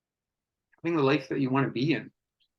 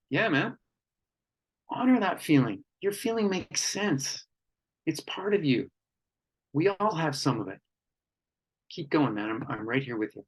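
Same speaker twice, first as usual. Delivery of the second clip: gentle reassurance; 2 semitones higher than usual. Shown as a demonstration. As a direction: hold space for him gently. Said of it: "Another one".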